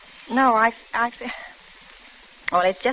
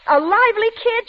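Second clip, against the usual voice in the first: higher, louder sneer at the phrase; scornful echo; 11 semitones higher, 5 dB louder than usual. Acted. Helen mocks the doctor's praise of Jessica, scornful. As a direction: throw his words back with contempt.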